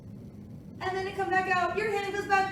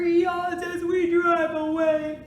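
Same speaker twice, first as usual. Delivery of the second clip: cheerful call; 8 dB louder, slower than usual. Acted. Parade climax in story.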